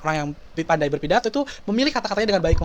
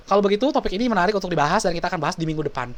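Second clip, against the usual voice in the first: hurried deflection; faster than usual. Retold or imitated.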